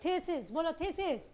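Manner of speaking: thesis modelled slowly, then the cue to repeat; slow teacher drill of thesis; slow model for repetition. Shown as a demonstration.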